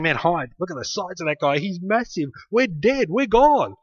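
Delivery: mock-frightened soldiers, pitch climbing; panicky soldiers. Preacher voicing the scared army, mock panic. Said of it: "Everybody else was saying".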